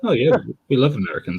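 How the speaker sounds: put-on high, loud British accent. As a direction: play a cheery Brit, British accent. Mocking British speaker.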